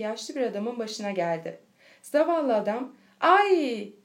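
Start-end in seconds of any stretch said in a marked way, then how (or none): 3.2-3.9 higher, louder "Ay!"; short cry of pain. A narrator's reading. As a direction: cry out as if suddenly hit. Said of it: "diye bir çığlık attı". (acıyla kısa bir çığlık)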